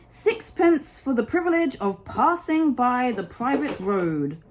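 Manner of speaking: a hint of a fussy old gatekeeper; elderly rabbit demanding toll.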